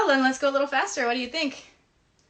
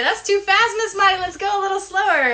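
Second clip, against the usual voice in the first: put-on higher, louder whiny child voice; mock complaining kid; 6 semitones higher, 4 dB louder than usual. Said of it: "some people say".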